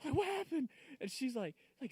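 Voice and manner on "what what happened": waking confused. Retold or imitated. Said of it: "I was like".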